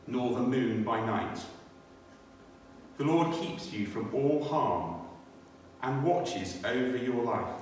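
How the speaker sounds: slow, measured reading of a psalm; solemn Bible reading with long pauses; scripture reading. Acted. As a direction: read the psalm aloud to the congregation, unhurried. Reads Psalm 121 aloud.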